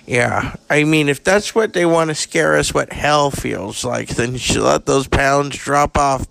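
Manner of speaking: lightly voiced raspy old actress, bawdy and blunt; a hint of a jaded Hollywood diva dishing dirt; Carrie Fisher. Plays Carrie Fisher in the podcast.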